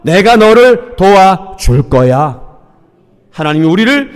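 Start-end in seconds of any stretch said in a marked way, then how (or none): 0.0-2.4 encouraging voice of God. Shown as a demonstration. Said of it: "한 번 더요".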